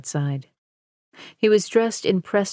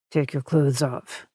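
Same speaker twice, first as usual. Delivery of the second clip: ordered; 4 semitones lower than usual. A narrator's reading. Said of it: "Meekum ordered".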